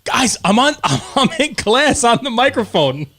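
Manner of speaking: high, pressing hissed plea; high urgent plea. Retold or imitated. Daughter pleading with parents mid-class, high urgent. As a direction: beg them to stop, high. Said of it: "Abby comes out and goes".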